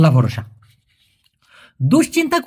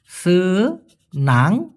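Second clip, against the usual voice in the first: "সেনাং" stretched very slowly with a rising tune; drawn-out teaching word; much slower than usual. Shown as a demonstration. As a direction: draw out "সেনাং" so learners catch it. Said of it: "মুডাহ অথবা সেনাং". ("সেনাং" খুব ধীরে টেনে বলা)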